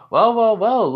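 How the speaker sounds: high, loud theatrical taunting; mock taunt. Rival greets two Class A students, taunting. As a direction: taunt them with swooping emphasis.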